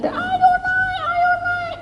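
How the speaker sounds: very high calling out; shouting. Acted. Family shouting to Noah to climb aboard, high call. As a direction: yell at him to climb up. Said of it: "Udah langsung teriak".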